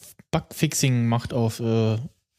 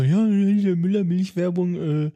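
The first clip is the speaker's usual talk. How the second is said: quoted ad answer; 4 semitones higher than usual. Retold or imitated. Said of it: "die Antwort darauf so".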